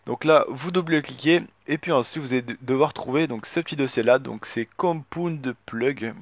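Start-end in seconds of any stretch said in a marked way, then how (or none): 4.8-6.1 slow English with a heavy French accent. Real, not acted. Tutorial maker reading an English folder name to viewers, French accent. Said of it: "désolé pour mon accent".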